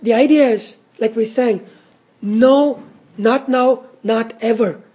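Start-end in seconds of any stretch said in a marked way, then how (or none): 2.2-4.8 weighty stress on "No", each phrase set apart; emphatic. Shown as a demonstration. Preacher stressing to the congregation that condemnation is over, emphatic. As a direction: hit "No" firmly, then "not now", "not ever". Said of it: "in the emphatic".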